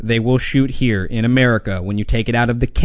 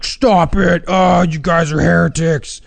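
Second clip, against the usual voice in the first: outraged fan; 4 semitones higher than usual. Retold or imitated. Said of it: "Be like".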